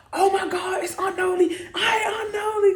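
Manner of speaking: high, loud happy call to a favorite aunt; light up and call out to her; excited greeting. Retold or imitated. Spotting favorite aunt at car.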